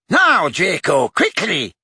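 angry order; angrily. A narrator's reading. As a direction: push him impatiently. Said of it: "said the brutal-faced man angrily".

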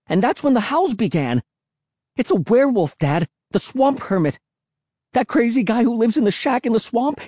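very high, frantic shrill voice; child's high-pitched panicked outburst; shrill cry. Acted. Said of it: "I cried in a shrill voice".

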